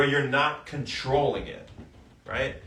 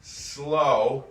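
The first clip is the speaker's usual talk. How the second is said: slow; much slower than usual. Shown as a demonstration. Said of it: "where you just go slow".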